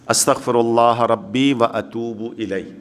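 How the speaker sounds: measured, word-by-word teaching recitation; slow recitation. Shown as a demonstration. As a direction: recite the prayer formula slowly. Teacher recites formula to learn. (ٹھہر ٹھہر کر تلاوت)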